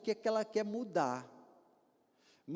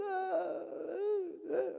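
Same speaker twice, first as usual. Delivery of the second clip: mock sobbing; 9 semitones higher, much slower than usual. Imitating young man sobbing.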